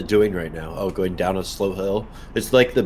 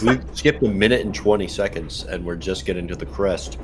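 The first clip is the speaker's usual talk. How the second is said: talking while chewing noodles; words through a mouthful of food; mouth full. Real, not acted. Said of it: "Sorry if my mouth sounds funny. I'm eating my noodles".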